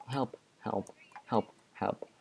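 breathy whispered help; whispered plea. Real, not acted. Gamer hiding from the ghast, whispered plea for help.

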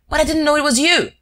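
high, loud protest; desperate to explain himself; pleading. Acted. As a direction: Wilson pleading with the raging Shears. Wilson pleading, just throttled.

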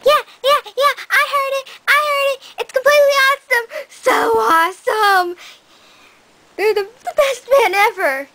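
high-pitched, eager gushing; squealing fangirl enthusiasm; overexcited fan. Acted. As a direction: burst in like a pupil desperate to answer. Eager pupil gushes about band.

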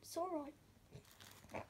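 whispering. Real, not acted. Whispering near hamster.

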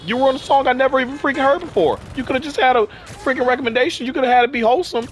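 sad rage. Real, not acted. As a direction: rant in real, hurt exasperation. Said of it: "in a freaking sad rage".

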